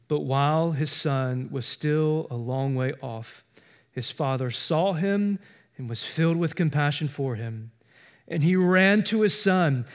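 scripture reading. Acted. Pastor reading the prodigal son parable aloud, measured reading. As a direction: read the parable with gentle weight.

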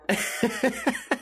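high breathy laugh at his own story; real laugh. Real, not acted. Laughing at his own water park joke. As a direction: crack up remembering it.

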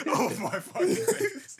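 high, slow drawn-out "oh my days"; excited exclamation. Real, not acted. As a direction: stretch it out in disbelief. Reacting to a remembered song.

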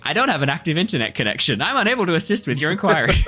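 high-pitched robotic-assistant parody; a parrot reciting a canned apology; parrot mimicking voice assistant. Game master as a parrot repeating the Google Home, high comic mimicry. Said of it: "As this parrot just is like".

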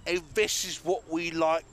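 mock New Zealand accent that lands in Liverpool; badly faked New Zealand accent; off-target New Zealand accent. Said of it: "No, that's Liverpool, bro".

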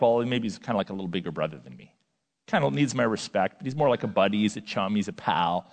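a hint of a breezy churchgoer shrugging; casual buddy tone. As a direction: toss it off like he's just a pal. Voicing casual view of Jesus.

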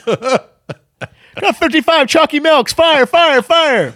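high, loud slow call; mock chef order. Chef calling out an order, high loud mock call.

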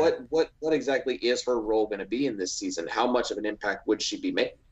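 hiccups. Real, not acted. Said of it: "I've got the hiccups tonight".

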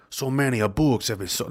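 put-on comic Spanish accent drifting towards Italian; accent slipping into Italian. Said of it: "Now I'm Italian".

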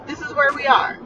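hiccuping while talking; with hiccups. Real, not acted. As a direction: talk through hiccups. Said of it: "I have hiccups".

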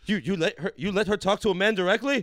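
loud, laughing hammed-up Arab accent. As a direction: ham up the macho uncle bargaining. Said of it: "Arab accent".

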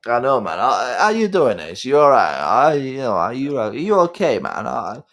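matey Brummie impersonation, swooping in pitch; rambling, fond sweary mate; Caps. Acted. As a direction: check on a pal, then fondly curse him. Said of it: "that's more like Caps".

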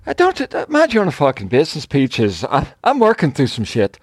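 put-on a light Venezuelan accent on a rough line. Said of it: "this is my Venezuelan accent".

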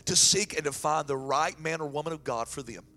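steady, loud prayer voice; fervent prayer. Acted. Pastor praying over the singles in church, fervent. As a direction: pray over them with conviction.

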